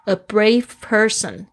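A brave person read slowly, with "brave" stressed; slow model reading. Shown as a demonstration. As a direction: say it slowly for students. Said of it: "是一个非常勇敢的人". (慢速示范)

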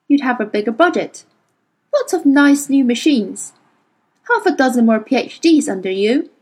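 mock him coldly; bitter sarcasm. Mary's bitter summing up.

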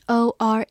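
"or" held as a long vowel. Shown as a demonstration. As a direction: draw out the vowel in "or". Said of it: "字母组合发长音or". ("or"发长音，拖长读)

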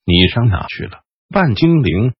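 hoarse rasping mage; creaky whisper. Acted. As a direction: breathe it out in a rasp. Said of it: "雷斯林嘶哑的低语说".

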